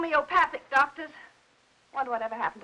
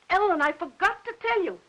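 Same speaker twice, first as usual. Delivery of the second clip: sudden gasp; 4 semitones higher than usual. Acted. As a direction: gasp as if just remembering. Sudden recollection.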